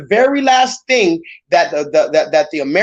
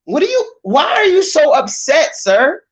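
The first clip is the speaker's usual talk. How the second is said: baffled reaction; 6 semitones higher than usual. Retold or imitated. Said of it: "I be like".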